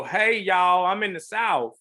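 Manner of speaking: hammed-up Southern accent, high and loud; bad Southern accent. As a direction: put on a crude mock Southern twang. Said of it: "if I tell you to do Southern and you go".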